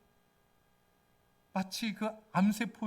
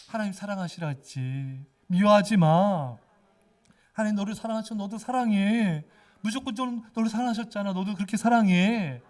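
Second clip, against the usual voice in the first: proclaiming; 4 dB louder than usual. Shown as a demonstration. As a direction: speak to your own heart with force. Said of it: "이렇게 외치는 거예요". (미운 마음에 자신에게 외치듯 단호하게)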